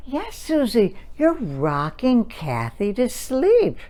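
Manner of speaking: slow, lightly sing-songy mother; a hint of cooing mommy. Shown as a demonstration. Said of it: "And Mommy says".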